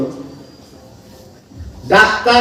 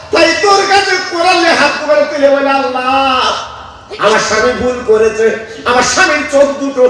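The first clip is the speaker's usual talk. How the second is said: tearful prayer; 2 semitones higher than usual. Acted. Wife praying over the Quran at night for her husband's eyes, tearful. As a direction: beg Allah through tears. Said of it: "কেঁদে কেঁদে বলছি".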